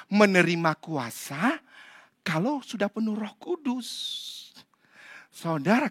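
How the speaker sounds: ordinary talk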